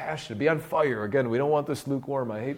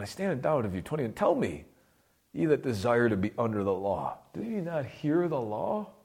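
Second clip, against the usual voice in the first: mildly challenging retold rebuke; lightly acted apostle's challenge; changed voice, challenging. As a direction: pose it as a pointed question, rising at the end. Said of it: "now he's changing his voice".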